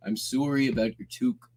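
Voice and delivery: put-on a light touch of Canadian accent. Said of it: "the way into the Canadian accent was always".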